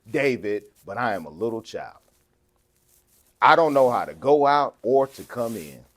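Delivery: slow, deliberate verse reading; scripture reading. Acted. Preacher reads young Solomon's humble prayer, measured scripture reading.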